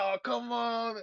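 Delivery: high, wailing whine with a cry in it; shrill whiny howl, loud and high; impression of Los. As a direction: wail it way up high like a sore loser. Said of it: "He's like".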